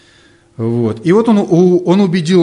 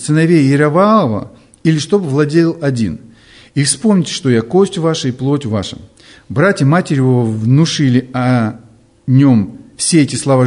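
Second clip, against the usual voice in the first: deliberate, projected Bible reading; scripture reading. Acted. Preacher reading Abimelech's story to listeners, scripture reading. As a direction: read the passage out clearly, phrase by phrase.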